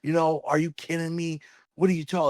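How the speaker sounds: retold incredulous outburst; imitated freak-out. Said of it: "he freaked out".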